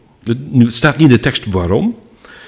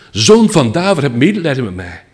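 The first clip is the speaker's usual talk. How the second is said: crying out; 5 semitones higher than usual. Retold or imitated. Blind beggar calls out to Jesus over the crowd, pleading cry. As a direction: call out for mercy, straining to be heard.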